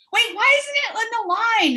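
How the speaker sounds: high, slow, laughing bafflement; laughing confusion. Retold or imitated. Mum failing to build a square, high laughing confusion. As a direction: puzzle over it through laughter.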